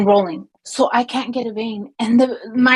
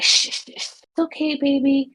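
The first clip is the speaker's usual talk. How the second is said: imitating hushing a baby; 6 semitones higher than usual. Coworker soothing dead baby, mock hushing baby talk. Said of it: "And she's like".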